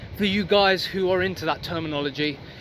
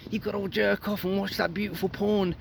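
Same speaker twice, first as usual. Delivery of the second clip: a lightly voiced seductive mind, slower and coaxing; tempting inner voice; 3 semitones higher, 3 dB quieter than usual. The mind tricking a viewer, voiced as a slow coaxing tempter. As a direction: play the sly voice in your head luring you back. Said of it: "Your mind is gonna trick you and say".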